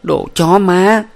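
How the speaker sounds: high, loud, slow furious curse; bitter curse. A narrator's reading. Huyen cursing Minh in bitter rage, furious. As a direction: spit out the curse with fury. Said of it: "nàng uất ức".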